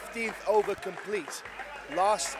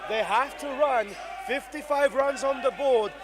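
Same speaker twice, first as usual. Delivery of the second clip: raised, insistent live call growing louder; keyed-up, higher-pitched play-by-play; urgent commentary build-up; 4 semitones higher, 4 dB louder than usual. Real, not acted. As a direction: push the tension up towards the final ball. Commentator builds up the last ball.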